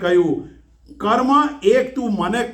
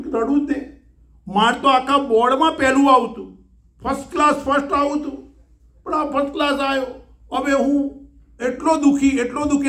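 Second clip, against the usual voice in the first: mock crying boy; 5 semitones higher than usual. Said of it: "રડે છે".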